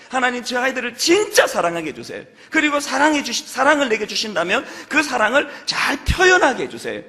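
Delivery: fervent prayer. Retold or imitated.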